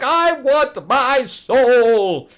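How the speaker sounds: high, loud, slow monster roar; roaring demon. Retold or imitated. Demon roaring at Kulan Gath for his soul. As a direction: bellow it out as a monster demanding. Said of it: "he's like".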